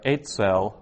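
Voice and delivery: Eitzel with EI stressed, TZEL light; stress on second-last syllable. Shown as a demonstration. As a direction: lean on the EI of Eitzel. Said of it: "it's the second last syllable".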